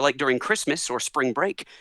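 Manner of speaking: ordinary talk, nothing marked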